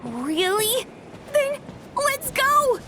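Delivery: put-on eager, high-pitched childlike cheer; excited little dragon. Little dragon agreeing to leave the castle, excited.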